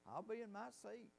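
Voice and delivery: high and slow, eager and thrilled; excited old lady. Retold or imitated. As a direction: imitate an elderly woman bubbling with joy. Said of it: "And she was so excited".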